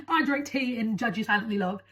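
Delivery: lightly put-on British accent; mock a British stereotype lightly. Summing up the stereotypical British answer, lightly put-on British accent. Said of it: "which is always British".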